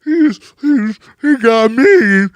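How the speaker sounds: stammering whiny fake sob; mock crying. Mocking rivals who whine after losing a fight, fake sobbing. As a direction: play the crybaby tattling. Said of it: "Now you crying about".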